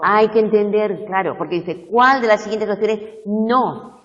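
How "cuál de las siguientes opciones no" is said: no stressed, pushed high, loud and slow. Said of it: "es una pregunta negativa".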